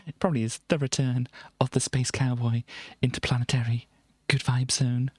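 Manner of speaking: hushed mock-dramatic whisper; whispered aside. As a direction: breathe it out like a secret.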